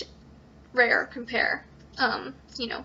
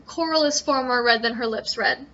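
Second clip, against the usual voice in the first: Coral is far more red than her lips red read with a forced beat; meter test. Shown as a demonstration. Teacher showing a line that breaks meter. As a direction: push it through the da-DUM pattern. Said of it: "an example that doesn't work".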